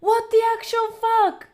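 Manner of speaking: high, loud disbelief; overwhelmed protest. Real, not acted. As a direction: cry out, pleading for it to stop. Overwhelmed, begs donor to stop.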